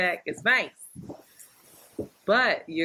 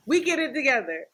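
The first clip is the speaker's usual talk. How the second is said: laughing whisper; 6 semitones higher than usual. Real, not acted. Laughing aside about rehearsals.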